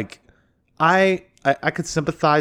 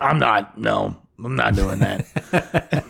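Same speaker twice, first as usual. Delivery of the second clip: imitated slow, low-key growl; growly voice; 3 semitones lower, slower than usual. Tech refusing to go back, imitated in a growly voice. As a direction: put on his growly voice, drawn out slowly. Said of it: "he kinda had a growly voice".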